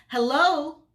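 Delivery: loud, high, irritated hello; drawn-out, impatient phone greeting; annoyed. A narrator's reading. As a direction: call down the line with obvious annoyance. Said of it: "an obvious level of annoyance".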